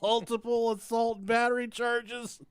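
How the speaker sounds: high laughing news read; laughing while reading. Real, not acted. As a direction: read the article through laughter. Reads news article laughing.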